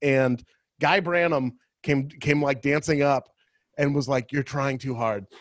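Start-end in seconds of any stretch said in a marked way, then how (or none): 4.3-5.2 mock gentle, kindly, sweetest delivery. Retelling what Guy Branum said at a dance: Guy Branum saying it sweetly. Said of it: "He probably said it in, like, the nicest, sweetest way".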